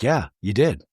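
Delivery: low, understated imitation of hurt. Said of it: "just very hurt".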